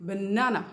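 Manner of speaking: "banana" with a strong middle "na"; stress on middle syllable. Shown as a demonstration. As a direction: punch the middle of "banana", ending falls. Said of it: "केवल बीच वाले को".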